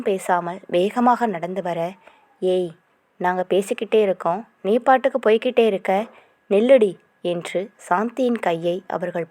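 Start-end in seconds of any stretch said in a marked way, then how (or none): 2.4-6.9 a thug grabbing at her; menacing thugs. Acted. Thugs harass a lone girl.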